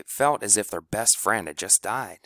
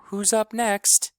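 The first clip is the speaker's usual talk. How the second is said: very high, loud, slow cry; strained high wail; near-hysterical question; 13 semitones higher, 4 dB louder, slower than usual. A narrator's reading. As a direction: ask it on the edge of panic. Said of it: "She was almost hysterical".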